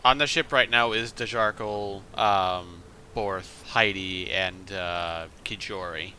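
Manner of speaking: muffled voice, like a hand over mouth. Real, not acted. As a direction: speak through a muffled mic. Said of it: "you're very muffled right now".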